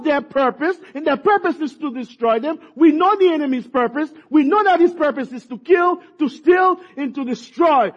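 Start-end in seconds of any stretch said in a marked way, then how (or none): 2.8-7.9 shouted high and loud, building to the peak; preaching shout. Real, not acted. Preacher shouting to his congregation about the enemy, loud and high. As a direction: cry it out like a preacher at full force.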